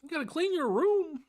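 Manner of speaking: very high parody of a lecturing professor; hammed-up high impression, on the edge of laughing; Jordan Peterson. Host mimics a pundit's stock advice for fun, Peterson impression. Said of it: "I love doing the Jordan Peterson accent".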